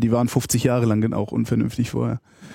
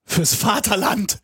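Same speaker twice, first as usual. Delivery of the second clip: higher, slow pompous proclamation; mock patriotic cry; 8 semitones higher, much slower than usual. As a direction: declaim it like a hammy patriot.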